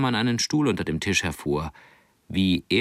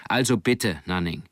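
commanding tone. Acted. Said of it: "Sie wechselte in ihren Befehlston".

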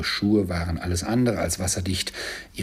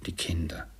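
softer hushed warning; whispered hush; 2 semitones lower, 6 dB quieter than usual. Acted. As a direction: hush her so the children don't hear. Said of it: "erwiderte Bob".

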